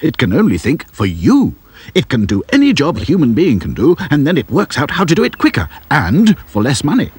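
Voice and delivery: high, excited inventor voice; eccentric professor. A narrator's reading. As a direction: boast like a giddy inventor. Professor explains his invention.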